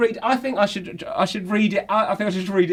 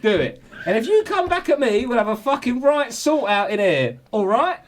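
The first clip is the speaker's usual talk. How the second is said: half-laughing, raised mock-furious rant; 6 semitones higher than usual. Reading out a manager's half-time team talk, mock furious. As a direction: read it like a manager tearing into a player. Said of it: "he went".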